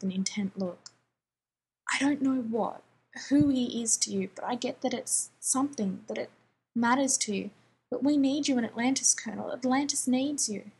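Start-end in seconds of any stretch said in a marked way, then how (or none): 1.9-10.7 urgent plea. Acted. Rodney pleading urgently with John.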